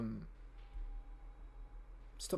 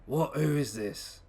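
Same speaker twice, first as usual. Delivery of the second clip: loud, higher startled question; 3 semitones higher, 5 dB louder, slower than usual. Acted. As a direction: sound suddenly alarmed. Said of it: "how would he say that?".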